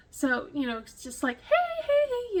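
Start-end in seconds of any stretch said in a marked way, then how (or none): 1.4-2.4 loud, high friendly hail across the gate; calling out. Retold or imitated. Calling to a woman sitting alone, loud and high. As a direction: sing out hey to get her attention.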